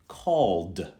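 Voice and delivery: CALLED slowly, one syllable ending in d; plain d ending. Shown as a demonstration. Teacher giving examples of the d sound, slow d ending. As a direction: draw out CALLED onto a voiced d. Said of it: "simply like d".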